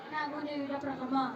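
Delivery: puppet voice. Pretend. Puppet character introduces itself.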